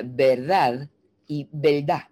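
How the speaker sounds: the two "verdad"s compared slowly; slow side by side of "verdad"; contrast demo. Shown as a demonstration. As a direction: contraste lento entre las dos "verdad". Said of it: "mira la diferencia".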